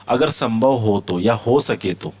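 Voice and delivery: usual speaking voice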